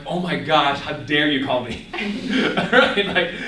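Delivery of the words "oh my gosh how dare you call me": mildly indignant, drawn-out complaint; mock upset. Young person upset at getting a phone call, mock indignant. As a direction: put on some offense at being interrupted. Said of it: "I get actually upset".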